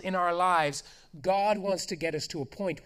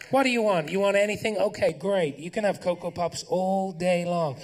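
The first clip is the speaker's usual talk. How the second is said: put-on indulgent parent coaxing a child, louder; 3 semitones higher, 5 dB louder than usual. Parent coaxing toddler with sugar, indulgent and loud. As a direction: offer it sweetly like a giving-in parent.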